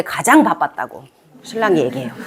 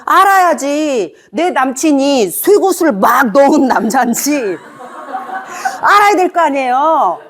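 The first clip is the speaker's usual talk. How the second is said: slow, higher, laughing through it; laughing emphasis; 5 semitones higher, slower than usual. Real, not acted. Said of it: "laughing emphatic point". (웃음 섞인 느린 강조)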